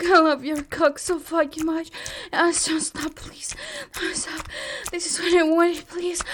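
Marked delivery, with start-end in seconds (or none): none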